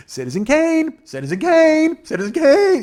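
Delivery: high, loud repeated yell; imitating yelling. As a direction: shriek the title over and over. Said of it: "he keeps yelling over and over".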